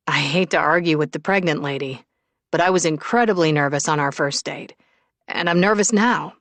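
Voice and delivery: a hint of a man's earnest confession; lightly voiced Shane. Shane admits his nerves to pregnant Willow, earnest. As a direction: confess it gently but firmly.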